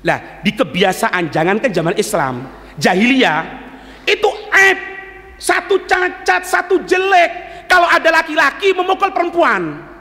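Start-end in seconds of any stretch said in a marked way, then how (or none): 4.1-7.6 drawn out, high and emphatic; stressed and slow. Real, not acted. Preacher drawing out the shame to the crowd, slow and emphatic. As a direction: lean hard on each word of shame.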